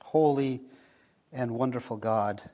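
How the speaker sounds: hushed earnest prayer voice. Acted. Closing prayer.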